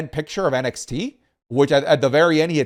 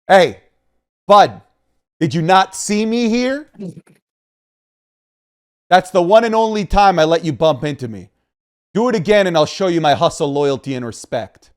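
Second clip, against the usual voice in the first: hammed-up game character confronting the player; loud, stagey mock warning, phrase by phrase; video game NPC; 2 semitones higher, 3 dB louder than usual. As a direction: play a scripted tough-guy NPC. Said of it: "Why do you sound like a video N P C?".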